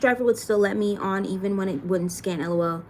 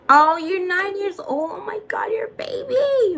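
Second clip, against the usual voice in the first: high-pitched gasping disbelief, breaking into a whisper; high squeal of surprise fading to a stunned whisper; shocked disbelief; 9 semitones higher, 4 dB louder than usual. Real, not acted. Shocked at a viewer's young age.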